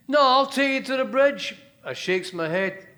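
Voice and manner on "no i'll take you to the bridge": loud, high insistence; insistent cabbie. Acted. Cabbie refusing to let her out, loud. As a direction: cut her off firmly.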